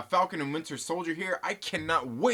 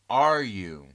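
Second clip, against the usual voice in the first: louder teasing repeat of Are you; taunting; 5 semitones lower, 6 dB louder than usual. Acted. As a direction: push the Are you back as a playful dare.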